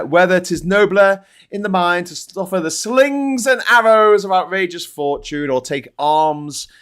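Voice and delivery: slow, measured Shakespeare recital; lightly theatrical reading of the soliloquy; recited Hamlet. Acted. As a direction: declaim it slowly like a soliloquy on stage. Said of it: "That's from Hamlet".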